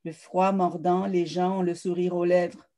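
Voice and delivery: measured literary recital with pauses between phrases; poised, deliberate verse reading, letting each image land; poetry reading. Acted. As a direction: read your own poem aloud, phrase by phrase. Reads own prologue and poems aloud.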